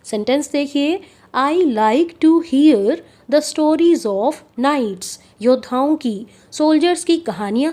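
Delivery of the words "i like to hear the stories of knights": very slow, clear dictation pace; spoken like a teacher dictating; slow example reading. Shown as a demonstration. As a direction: read each word out slowly for the class.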